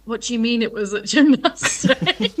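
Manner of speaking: mum's question through laughter; laughing mum quote. Retold or imitated. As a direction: laugh while voicing the worried mum. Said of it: "she was like".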